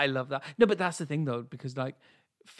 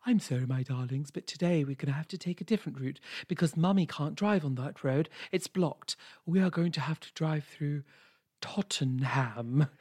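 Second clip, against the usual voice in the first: a lightly voiced posh mother, plummy and gentle; posh mother soothing her kids, lightly voiced; posh mum impression. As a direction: put on a hint of a posh mummy talking to her darlings. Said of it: "she plays a super posh woman with posh kids".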